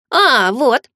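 bright happy cry of finding; mild happy exclaim; joyful exclamation. Acted. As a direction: exclaim with relief and joy. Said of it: "радостно воскликнул дух".

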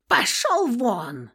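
high, loud, slow screech; cornered woman screeches at the narrator; squeal. Acted. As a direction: screech him away. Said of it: "заверещала она".

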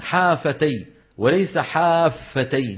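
slow contrast of حافتي with a light, single ف then a doubled one; حافتي first with a light ف, then wrongly doubled; right and wrong. Shown as a demonstration. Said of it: "حافة بتخفيف الفاء". (حافتي بفاء خفيفة ثم بفاء مشددة للمقارنة)

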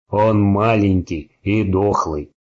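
slow, gurgling with blood. Acted. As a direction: speak through a mouthful of blood. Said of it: "булькая кровью, негромко сказал".

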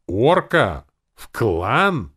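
loud, high, incredulous cry; outraged yell. A narrator's reading. Elves objecting to an orc joining, outraged. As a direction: yell it in shocked disbelief. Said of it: "дружно заорали эльфы".

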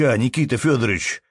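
mildly choked-up appeal; holding back tears. Acted. Peasant near tears calling the manager's name, tearful. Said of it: "едва удерживаясь от слёз".

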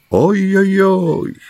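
high, slow sighing "ой-ой-ой"; a drawn-out comic groan of exasperation; doctor exasperated over Ben Gunn; comic exclamation. A narrator's reading.

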